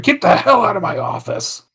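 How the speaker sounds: high-pitched mock outburst, no real volume; half-voiced retold yell, pitched high; mock scream. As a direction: act out a boss throwing someone out, pitch jumping up. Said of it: "and he just screamed".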